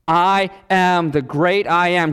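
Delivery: slow, emphatic divine declaration; declaring. Acted. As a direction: proclaim it slowly, stretching each word. Voices Jesus declaring his divinity.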